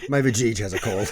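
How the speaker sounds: giggly mock complaint; laughing. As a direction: laugh through it. Joke voice laughing.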